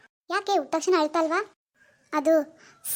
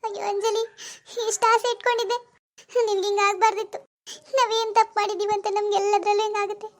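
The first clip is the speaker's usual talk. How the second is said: raised, sorrowful wail; tearful lament; 3 semitones higher than usual. Acted. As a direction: lament through tears. Grieving over the stillborn baby.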